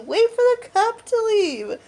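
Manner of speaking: high, drawn-out plea; slow, high mimicry of a sleep talker; imitated sleepy insistence. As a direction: stretch it out in a high voice.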